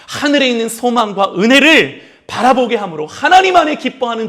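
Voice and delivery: rising, emphatic sermon cadence; fervent preaching. Acted. Pastor preaching to the congregation, fervent.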